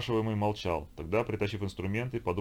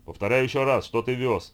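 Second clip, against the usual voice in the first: loud, hammering demand, pitched up; insistent angry repeat; 4 semitones higher, 7 dB louder than usual. Acted. Konung presses the tortured captain again, loud and menacing. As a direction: drive each word into the prisoner. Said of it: "твердил конунг".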